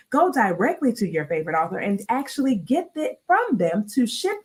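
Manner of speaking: lightly played TV news anchor; smooth evening news sign-on. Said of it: "Do it in your anchor voice".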